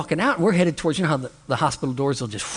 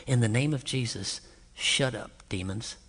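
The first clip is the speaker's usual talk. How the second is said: softer, low firm command; quiet rebuke; 4 semitones lower, 7 dB quieter than usual. Retold or imitated. Preacher to a possessed man, softer firm rebuke. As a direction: rebuke him quietly, not loud. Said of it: "I didn't say it real loud".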